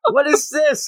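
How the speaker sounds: high-pitched, acted disbelief; mock shock. Girl discovering the boy's tail, mock shock. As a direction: imitate a startled demand. Acts out her shocked question.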